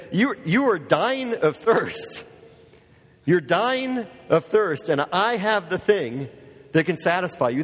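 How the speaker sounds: slow, drawn-out earnest plea. Acted. Preacher voicing Jesus to a thirsty woman, slow earnest plea. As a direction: stretch each word out like a gentle appeal.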